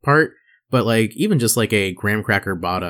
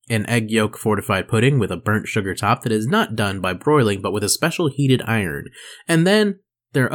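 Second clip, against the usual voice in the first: reading aloud; 2 semitones higher than usual. Real, not acted. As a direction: read it out like an explainer, unhurried. Reads expert's written answer aloud.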